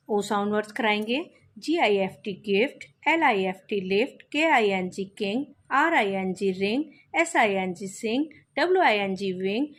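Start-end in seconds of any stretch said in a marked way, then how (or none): 1.6-9.6 slow spelling-out. Shown as a demonstration. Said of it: "इस तरीके से हम बोलेंगे और बच्चे साथ में रिपीट करेंगे".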